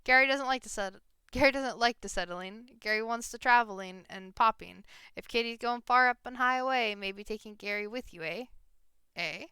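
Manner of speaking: goblin voice. Acted. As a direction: greet them like an eager little goblin. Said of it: "the goblin shouts".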